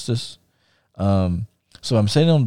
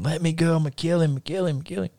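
retold raging; 7 semitones higher, 5 dB quieter than usual. Dragged out of bar, kicking, threatening.

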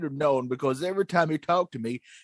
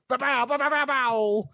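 high mock girlish sound effect; 7 semitones higher than usual. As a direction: squeak it like a cartoon girl. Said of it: "that's supposed to be like a girl".

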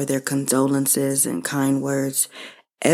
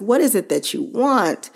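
retold attitude; 6 semitones higher than usual. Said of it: "answer her kind of with an attitude".

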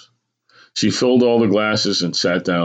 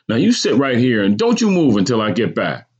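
lightly voiced mother, higher; firm mother; 5 semitones higher than usual. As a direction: firmly instruct a child, slightly scolding. Mother orders boy to stay put.

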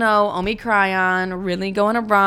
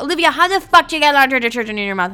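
exasperated mom; 6 semitones higher, 5 dB louder, faster than usual. Retold or imitated. Exasperated mom voiced in story.

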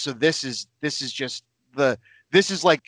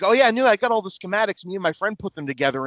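excited fan; 5 semitones higher, faster than usual. Retold or imitated. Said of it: "who's like".

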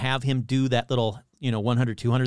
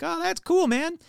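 fake enthusiasm; slower than usual.

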